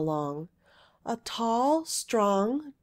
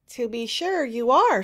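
louder smiling reply; 2 semitones higher, 6 dB louder than usual. A narrator's reading. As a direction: say it with a knowing smile. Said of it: "smiled the Weird Witch".

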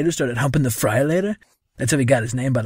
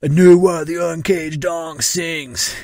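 slow, drawn-out mock yell; slightly raised, slowed-down quoted yell; 4 semitones higher, 4 dB louder, slower than usual. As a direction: imitate him hollering it slowly. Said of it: "He kept yelling".

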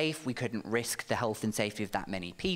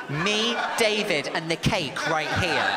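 emphatic; 3 semitones higher, 6 dB louder, slower than usual. Real, not acted. Building to the punchline.

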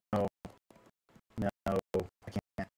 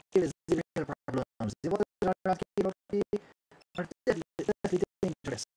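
grand, theatrical showing-off of a beloved ship; pompous ship owner; 6 semitones higher, slower than usual. Acted. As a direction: proclaim it with sweeping pomp and drawn-out relish. Voices a grandiose ship owner in game.

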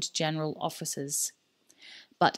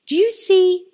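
much higher, loud mocking cry; gloating shriek; 12 semitones higher, 10 dB louder than usual. Sale gloating at Alex with a high, loud cry. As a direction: crow it in his face.

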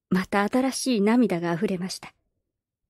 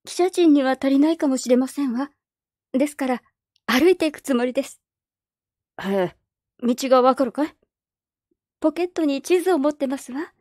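put-on a higher, earnest girlish voice; politely but firmly refuse; young girl Perrine; 4 semitones higher than usual. Orphan girl telling the neighbours she must leave, earnest girlish voice.

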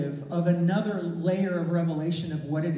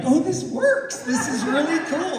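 high, laughing, bubbly delight; mock giddy teenagers laughing with joy; giddy teens; 10 semitones higher, 5 dB louder than usual. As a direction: squeal it like a thrilled kid. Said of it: "They were all giddy".

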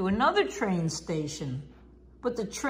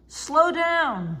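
high, louder call to slow; driver's raised warning call; urgent warning; 7 semitones higher, 4 dB louder than usual. Acted. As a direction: warn the engine urgently. Driver sees trouble ahead.

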